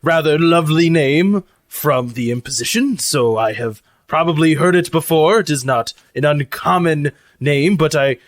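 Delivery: lightly voiced, mannered robot cook; formal robot cook. Lucy answers crew about a contact, lightly formal robot voice.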